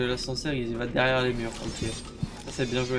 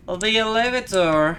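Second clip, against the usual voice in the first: slow and loud; slow drawl; 8 semitones higher, 8 dB louder, much slower than usual. Pretend. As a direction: stretch it out loudly. Streamer drawls English words.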